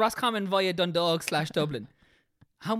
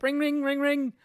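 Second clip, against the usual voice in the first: phone ringing; 12 semitones higher, 5 dB louder, slower than usual. Pretend.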